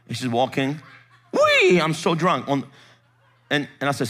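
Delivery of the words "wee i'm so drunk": slow, drawn-out high mock whee; fake drunken whooping. Pastor mimics the wife walking about, fake drunken whoop. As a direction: imitate her tipsy act with a long whoop. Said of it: "wanted to be so drunk in the Holy Ghost, it was all fake".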